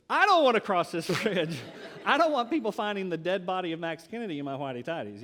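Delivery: half-laughing nervous dread; laughing fear. Retold or imitated. Preacher retelling his fear at the bridge, laughing. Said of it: "So I'm scared too".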